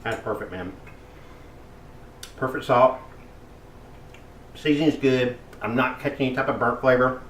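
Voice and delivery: talking with his mouth full. Real, not acted. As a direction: speak through a mouthful of food. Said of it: "Sorry, I'm talking with my mouth full".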